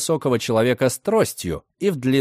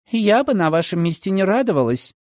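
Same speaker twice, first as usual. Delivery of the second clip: cold; 7 semitones higher than usual. Acted. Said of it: "холодно сказала Маргарет".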